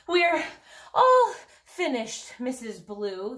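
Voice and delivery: panting, high and loud; out of breath. Acted. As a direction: gasp it out, out of breath. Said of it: "they panted".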